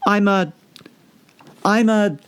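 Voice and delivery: put-on high, stammering girl; hesitant Alice. Alice unsure what she is. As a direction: grope for the word.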